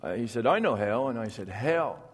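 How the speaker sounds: put-on storyteller Vermont accent, unhurried and dry; rural Vermont logger accent. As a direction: tell it like an old Vermont logger spinning a yarn. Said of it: "you've got the accent down".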